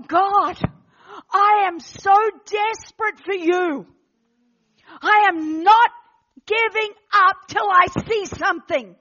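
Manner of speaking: emphatic cry to God, word by word; impassioned plea. Retold or imitated. Preacher recalling her plea to God while fasting, impassioned. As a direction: punch it out with determined pauses.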